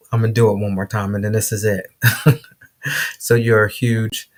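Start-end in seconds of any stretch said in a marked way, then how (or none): 3.2-4.3 slow exasperated repeat. Real, not acted. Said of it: "if I have to say this line one more time".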